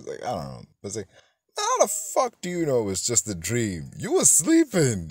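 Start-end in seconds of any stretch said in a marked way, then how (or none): 1.6-5.1 rising, incredulous outburst; can't believe the script; the disbelief builds to a higher, louder peak; exasperated rant. Real, not acted. Ranting at the movie's dialogue.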